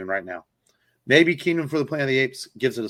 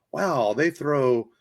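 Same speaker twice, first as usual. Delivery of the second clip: slow, higher, drawn-out wonder; mock amazement; 4 semitones higher, slower than usual. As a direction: spell out the bewilderment at the rushed old film. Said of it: "you're like".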